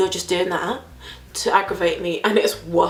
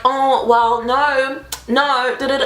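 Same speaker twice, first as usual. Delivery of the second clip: higher-pitched imitation of a lecturer; lightly mocking, preachy retelling; mock lecturing; 3 semitones higher, slower than usual. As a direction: mimic someone lecturing you, trailing into da-da-da. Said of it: "he started lecturing me and being like".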